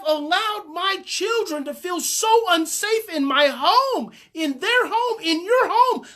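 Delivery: lightly mocked sorry-parent voice; overly apologetic parent. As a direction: lay on the remorse, half-laughing. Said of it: "you go".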